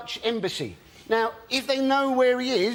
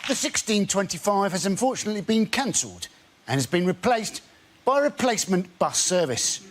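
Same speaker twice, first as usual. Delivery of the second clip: tannoy announcer; 2 semitones lower than usual. Acted. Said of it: "unlikely things to hear over a tannoy".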